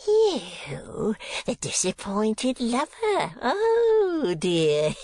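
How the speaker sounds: put-on high, jeering old miser; mock the rival with high, wailing glee; gloating fiend. A narrator's reading. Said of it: "into a perfect fiend".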